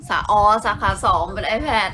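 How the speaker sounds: slow, laughing as it clicks; laughing realization. Real, not acted. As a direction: catch on with a laugh, drawn out. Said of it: "กำลังประมวลผลว่า". (หัวเราะเมื่อนึกออก พูดช้าๆ)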